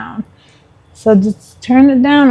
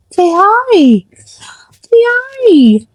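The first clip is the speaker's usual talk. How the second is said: gentle whispered prompt to the dog; whispered coaxing; 9 semitones higher, much slower than usual. Real, not acted. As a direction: whisper to the dog, rising high.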